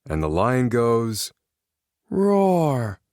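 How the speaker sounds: slow and drowsy, then a high playful roar; a tired kid still acting out the lion; sleepy child reading aloud. Drowsy boy reading his bedtime book, ending in a high roar. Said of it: "he yawned again".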